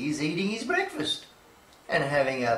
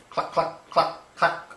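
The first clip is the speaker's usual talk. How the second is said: clucking hens. Acted.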